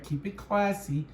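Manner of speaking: slow catchphrase with falling end; slow sign-off. Acted. Repeating sign-off to viewers, slow falling catchphrase. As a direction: land the catchphrase slowly.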